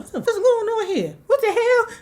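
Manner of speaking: put-on high, fast, shrill-pitched kid complaining; a scared little girl protesting she was made to sleep there; whiny scared child. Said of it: "was like".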